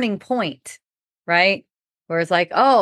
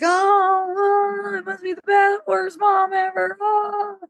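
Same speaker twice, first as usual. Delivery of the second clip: high, sing-song wail of a scandalised parent; mocking dramatic parent; 12 semitones higher, slower than usual. A Babylonian-minded parent hears her son, mocking wail. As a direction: lament it like the end of the world. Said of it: "It's like".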